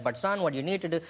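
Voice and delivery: imitated actor's put-on Indian dad accent; lightly hammed Indian accent for an audition; mock Indian accent. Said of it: "that's not your real accent".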